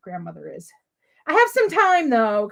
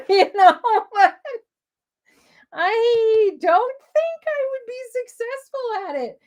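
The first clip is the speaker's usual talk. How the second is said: laughing self-mockery; 9 semitones higher, 4 dB louder than usual. Real, not acted. Laughing at own inability.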